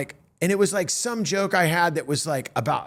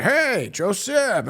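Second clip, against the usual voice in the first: higher, drawn-out hail; hearty greeting; 5 semitones higher, much slower than usual. Retold or imitated. Ray recognizes the comic right away, drawn-out hearty greeting. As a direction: imitate calling slowly to someone you recognize.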